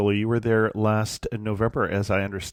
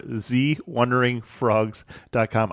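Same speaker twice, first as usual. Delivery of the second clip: cheesy French accent; slower than usual. Shown as a demonstration. Host jokingly says guest's site in a cheesy French accent. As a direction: ham up a French accent on the web address. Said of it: "I can't say that without a cheesy French accent".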